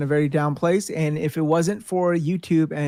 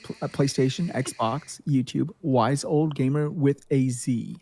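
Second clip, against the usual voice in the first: professor voice; 3 semitones lower than usual. Pretend. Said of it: "Let me put my professor voice on".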